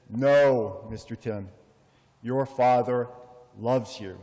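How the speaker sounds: put-on earnest, lightly Spanish-accented insistence; a hint of the doorman's Spanish accent, firm. Doorman grabs Tim's arm insisting, light Spanish accent. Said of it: "he spoke with a Spanish accent".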